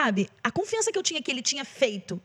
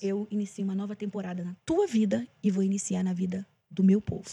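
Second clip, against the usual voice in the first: voice of God; 4 semitones lower than usual. Retold or imitated. Singer retells God's answer to her prayers, low and restrained. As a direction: lightly voice God, keeping the pitch down. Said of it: "Aí Deus falou pra mim".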